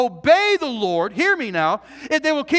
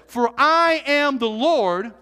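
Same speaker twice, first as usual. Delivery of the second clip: slow, weighty pronouncement; God declaring himself, slowed right down; solemn slow declaration; slower than usual. Retold or imitated. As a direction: let it land slowly, word by word. Voicing God's declaration.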